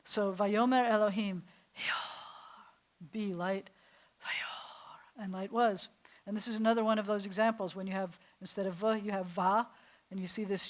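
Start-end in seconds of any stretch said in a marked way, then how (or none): 0.3-5.9 unvoiced breathy whisper. Shown as a demonstration. Teacher whispers God's words to show they are breath. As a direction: breathe the Hebrew out like wind. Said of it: "these words are breathing words".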